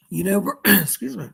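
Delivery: throat catching on a sip of tea; choking on tea. Real, not acted. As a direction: cough through a swallow of tea. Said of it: "just choking on my tea".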